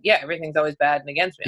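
flat-out resigned shrug; resigned thirties self. Retold or imitated. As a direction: toss it off like it's old news. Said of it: "now in the thirties, it's like".

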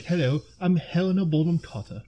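mock posh British introduction, a weak British accent; bad British accent. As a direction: put on a clumsy British accent to introduce yourself. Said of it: "That wasn't a great British accent".

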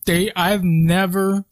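talking round a mouthful; slowed speech, food in mouth; mouth full. Real, not acted. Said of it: "I have ginger in my mouth".

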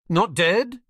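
high, loud, choked gasp of a question; choked disbelief. A narrator's reading. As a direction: blurt it out in shock. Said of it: "choked Filch".

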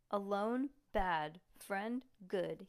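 lightly voiced Frankenstein monster; a hint of Frankenstein grunt. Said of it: "he said in a Frankenstein voice".

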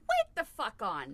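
loud, slowed, laughing "wait"; laughing outburst. Real, not acted. Host stops the guest, laughing loudly. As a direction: cut her off through real laughter.

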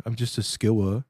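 put-on childlike voice, lightly done; little kid voice. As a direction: sound like a small kid. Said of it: "it was a little kid voice".

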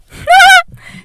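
high, loud burst of laughter; laughing. Real, not acted. Sudden outburst after her confession.

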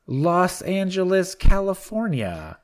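Los Angeles drawn out and high; Los Angeles said slowly. Shown as a demonstration. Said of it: "I believe it's pronounced".

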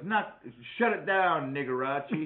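slow, loud movie quote; retelling a Nutty Professor line, slowed; quoting movie character. Retold or imitated. Friend quoting the piano guy from the movie, slow and loud. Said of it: "and he goes".

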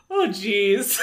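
her habitual catchphrase tone; typical "oh jeez". Shown as a demonstration. Showing co-host how she would say it, typical tone. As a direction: say it as a small, exasperated habit. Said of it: "Say it how you would say it".

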